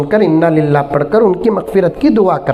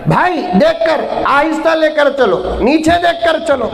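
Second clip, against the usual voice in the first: fussy mourner; 5 semitones higher than usual. Retold or imitated. Widower repeating his plea. (ऊँची, धीमी मिन्नत भरी आवाज़)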